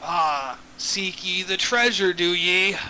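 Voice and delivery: low, slow pirate dragon; lightly voiced pirate talk. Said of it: "he has a pirate voice".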